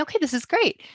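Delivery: hushed, breathless private thought; inner whisper. Retold or imitated. Thinking to herself in the lawyer's office, whispered. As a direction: whisper it to yourself, hopeful.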